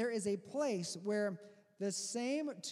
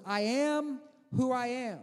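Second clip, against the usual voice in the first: slow, louder, higher divine pronouncement; voice of God; 4 semitones higher, 6 dB louder than usual. Acted. God answering Moses from the bush, slow and booming. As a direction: declare it like God from the burning bush. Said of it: "God replied to Moses".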